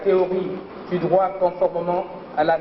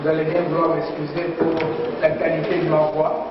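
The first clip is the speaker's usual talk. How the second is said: hoarse voice from a sore throat; speaking through an aching throat; 2 semitones lower than usual. Real, not acted. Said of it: "j'ai une angine". (voix enrouée par une angine)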